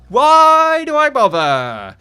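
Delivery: long, loud, high drawn-out wail; despairing wail. Pretend. Builder fed up with his build, hammed-up despairing wail. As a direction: stretch it into a melodramatic yell.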